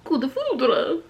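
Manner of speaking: slow Dracula-style "Coup de foudre". Retold or imitated. Copying the pronunciation clip, Dracula-like. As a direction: draw it out with a touch of Dracula. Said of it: "Sounds like Dracula".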